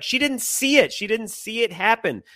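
high, insistent imitated protest; retold arguing. Husband defends wife to angry parent, retold arguing. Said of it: "we got into an argument".

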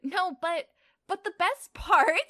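high, loud, giddy gasps; gasping between laughs. Acted. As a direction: act barely getting words out for laughing. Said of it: "Lily gasped out between laughs".

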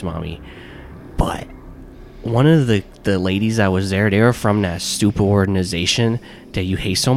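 lightly voiced little kid; a child reporting to mommy; preschooler voice. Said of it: "you like my little kid voice".

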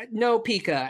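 put-on high childlike voice; little girl voice. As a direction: imitate a toddler saying it. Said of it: "She's like".

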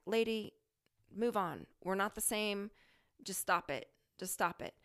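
exasperated, dismissive brush-off; a touch of irritation, mildly telling someone to back off; irritated tone. Retold or imitated. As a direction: tell her off, fed up and tired of it. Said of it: "in a very irritating tone".

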